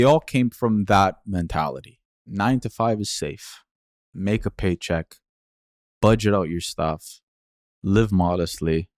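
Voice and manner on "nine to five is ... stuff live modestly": slow, measured recital of safe advice; imitated parental mantra, slow and deliberate; recited family mantra. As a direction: spell out each rule slowly, pausing between. Reciting family's play-safe mentality.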